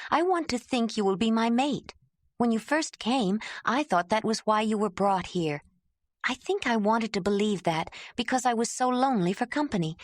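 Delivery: earnest confession, lightly voiced; Ayla pleading. Ayla opening her heart to Jondalar, gentle and earnest.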